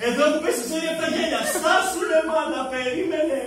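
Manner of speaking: hiss-shout it like in a theatre seat; mother and son bickering. Retold or imitated. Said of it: "να φωνάζει". (μάνα και γιος λογομαχούν στο θέατρο, ανεβασμένη φωνή)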